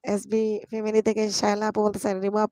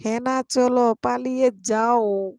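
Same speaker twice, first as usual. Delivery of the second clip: drawn-out teasing; 2 semitones higher, slower than usual. Shown as a demonstration. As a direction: drag it out teasingly. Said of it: "repeated slower, teasing".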